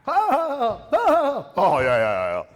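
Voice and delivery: loud, high mock guffaws falling into yeahs; imitated group laughter. Imitating the crew laughing at his jokes, hammed-up loud laughter. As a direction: fake a big, high-pitched sycophantic laugh. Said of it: "they'd laugh".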